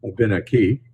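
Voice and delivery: Abenaki with the weight on the third syllable from the end, a-be-NA-ki; correct pronunciation. Shown as a demonstration. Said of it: "The emphasis is usually on the third syllable from the end".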